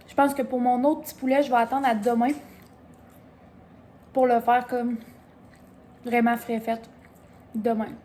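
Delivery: talking with a mouthful; words around a bite of chicken; chewing while talking. Real, not acted. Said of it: "Je suis désolée si vous m'entendez manger". (en mâchant)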